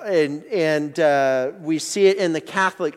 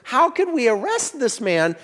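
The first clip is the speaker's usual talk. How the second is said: higher, amazed retelling; awed servants; 8 semitones higher than usual. Retold or imitated. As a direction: play the servants blown away in awe. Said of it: "They're like".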